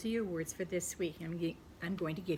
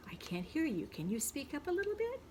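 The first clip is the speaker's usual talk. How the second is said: a hint of a hard-of-hearing voice, the question pitched much higher; someone who can't hear; 8 semitones higher than usual. Teacher acting out a listener who can't hear. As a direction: play someone straining to hear. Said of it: "this is the kind of hear".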